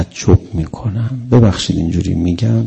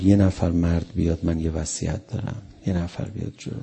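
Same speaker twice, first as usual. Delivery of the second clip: mild weeping plea, fading softer; softer tearful plea; 4 semitones lower, 5 dB quieter than usual. Retold or imitated. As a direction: plead quietly as if through tears.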